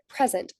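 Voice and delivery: "present" with main stress on its first syllable. Shown as a demonstration. Teacher showing secondary stress, "present" strongest on first syllable. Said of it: "the primary stress is on the first syllable".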